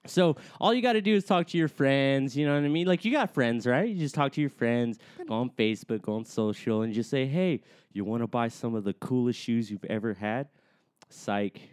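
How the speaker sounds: hyped sales hustle; mlm recruiter pitch. Pretend. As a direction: close the deal like a hustler. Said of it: "give me a pitch on slippers".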